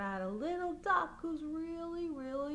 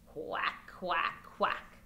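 whispered quacks; 8 semitones lower, much slower than usual. Acted. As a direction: whisper the quacks while tickling. Duck tickling baby game.

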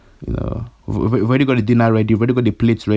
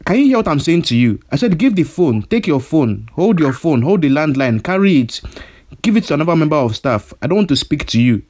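angry; 3 semitones higher than usual. Acted. Angrily repeating his demand.

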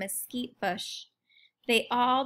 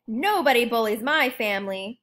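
louder squawk of defiance; 5 dB louder than usual. Acted. Quincy stands up to the hummingbird bully, louder defiant squawk. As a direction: puff up and squawk it. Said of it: "squawks Quincy".

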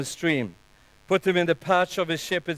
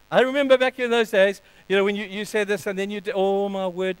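raised-pitch accusing reminder; voice of shame; 4 semitones higher than usual. Acted. Shame reminds a believer of past wrongs, accusingly. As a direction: needle them about their past. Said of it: "The voice of shame that says".

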